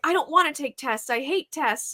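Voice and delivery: high-pitched imitation of a sulk; mock sulky protest. Imitating a student refusing tests, mock sulky. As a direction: put on a pupil's petulant refusal. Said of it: "she's being a little in her feelings".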